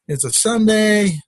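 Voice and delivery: frustrated. Retold or imitated. Man losing his Sunday afternoon to lost nuts, frustrated. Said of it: "I'm getting frustrated".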